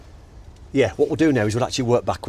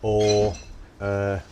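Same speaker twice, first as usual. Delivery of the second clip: talking while chewing a sweet; words round a sweet in the mouth; mouth full. Real, not acted. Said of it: "I'm chewing a sweet".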